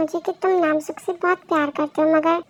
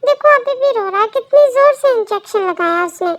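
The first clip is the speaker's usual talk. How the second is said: loud, high-pitched indignant complaint; worked-up acted outburst, pitched up; angry, upset parent; 5 semitones higher, 8 dB louder than usual. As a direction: protest loudly over your crying baby. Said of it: "तुम doctor पे गुस्सा कर रहे थे".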